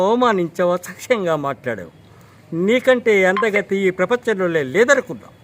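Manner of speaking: a heated screen tirade that climbs in pitch and volume; Akkineni Nageswara Rao impression. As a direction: mimic a film hero's furious dialogue to the heroine. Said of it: "suppose Akkineni నాగేశ్వరరావు గారు ఉన్నారు".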